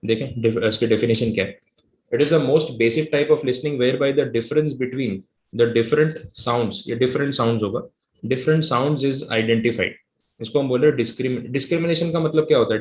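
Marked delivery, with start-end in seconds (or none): 2.1-9.9 very slow, deliberate reading aloud; slow textbook reading. Acted. Teacher reading the textbook definition aloud to the class. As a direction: read the definition out word by word.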